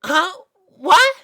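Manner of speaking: high, loud startled filly. A narrator's reading. Sweetie Belle snapped out of her thoughts, startled. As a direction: jolt awake from a daydream. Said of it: "was awoken from her thoughts".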